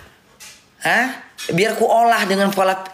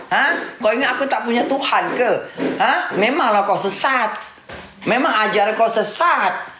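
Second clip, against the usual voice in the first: mock indignant scolding. Acted quarrel with Walid in Malay.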